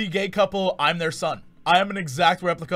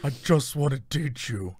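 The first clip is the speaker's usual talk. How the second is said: lightly ghostly, quavering put-on voice; a hint of a pleading spooky villain; Kylo Ren. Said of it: "your Kylo voice is very similar to your ghost voice".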